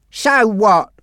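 genuinely lost; confused. Acted. Monty to Frankie, confused. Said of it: "asked Monty, confused".

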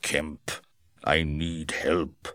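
a lightly voiced Griffin asking for help. A narrator's reading. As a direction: softly say "Kemp", then a slow plea. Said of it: "The voice said".

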